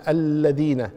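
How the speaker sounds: الذين as "al-ladhina" with firm geminated lam; doubled lam. Shown as a demonstration. Teacher repeating for the shadda, doubled lam in الذين. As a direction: hold the "ll" of الذين. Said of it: "مشددة".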